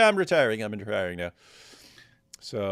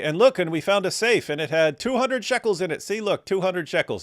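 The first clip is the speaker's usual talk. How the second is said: mock boast; 5 semitones higher than usual. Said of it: "you make a video and you say".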